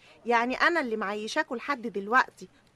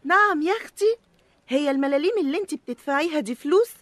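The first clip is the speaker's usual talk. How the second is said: indignant retort; 3 semitones higher, 6 dB louder than usual. Acted. Tamween card snapping back.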